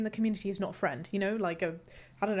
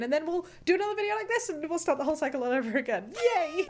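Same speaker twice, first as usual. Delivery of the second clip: mock cheerful; 7 semitones higher, faster than usual. Joking about the endless cycle, sarcastic cheer. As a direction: sell the doom as good news.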